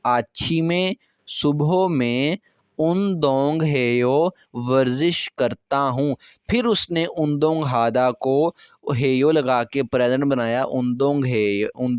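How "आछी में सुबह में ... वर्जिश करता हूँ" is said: slow translation reading. Shown as a demonstration. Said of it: "इसका तर्जुमा क्या करते हैं".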